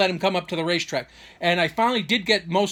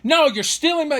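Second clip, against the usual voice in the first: high, loud outraged interruption; mock freaking out; 10 semitones higher, 6 dB louder than usual. Father cutting off son's explanation, mock freaking out. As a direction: imitate a frantic accuser, voice leaping up. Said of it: "he's freaking out".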